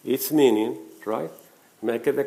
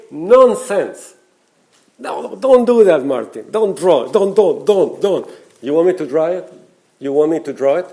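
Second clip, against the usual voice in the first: louder, higher scolding inner voice; nagging mind voice; 4 semitones higher, 7 dB louder than usual. Retold or imitated. The mind scolding Martin against drawing, loud and high. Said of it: "our mind will try to say".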